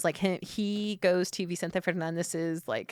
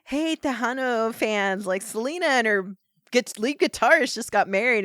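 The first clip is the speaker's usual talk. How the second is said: mock radio DJ; 4 semitones higher, 5 dB louder than usual. Radio host breaks wedding news to fans, mock announcer. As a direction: announce it like a DJ, hammed up. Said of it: "they're listening to the radio".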